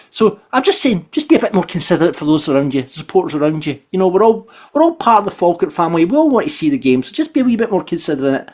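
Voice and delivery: a touch of a lecturing dad, quickened; mild dad lecture to the crowd; dad speech. Acted. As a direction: preach it like a mild, fussy dad. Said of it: "that's my dad's speech done".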